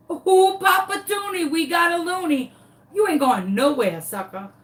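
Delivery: high, revved-up taunting; trash-talk the runaway chicken; hyped taunt. Retold or imitated. Chasing the flapping chicken, high and excited taunting.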